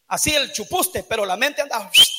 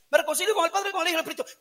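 mock rote prayer; 2 semitones higher, 7 dB quieter, much faster than usual. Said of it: "así".

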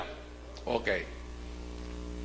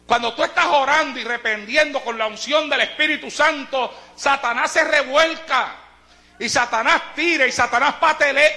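higher, projected sermon voice; earnest preaching; 9 semitones higher, 3 dB louder than usual. Real, not acted. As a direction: press the lesson home in rhythmic repetitions. Preaching resumes after quiet anecdote.

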